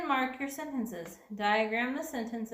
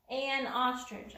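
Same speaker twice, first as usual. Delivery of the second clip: An ostrich with an stressed; slower than usual. Shown as a demonstration. Teacher models An ostrich, stressing an. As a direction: lean on An. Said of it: "So I'm gonna need an here".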